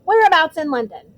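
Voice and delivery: put-on chirpy young bus conductor; cheeky conductor voice. Stan's voice in audiobook.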